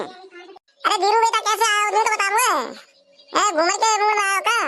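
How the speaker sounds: high-pitched village auntie. Acted. Auntie asking Dhiru why he came, in high voice. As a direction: question the visitor in a high old-auntie voice. Auntie greets her visiting nephew.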